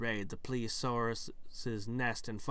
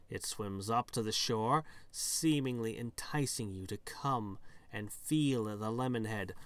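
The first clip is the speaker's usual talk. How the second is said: measured nature-tale narration; story narration. Acted. Describing a peculiar fish to the player, storytelling voice. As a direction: present the creature like a storybook narrator. Reads game text as story.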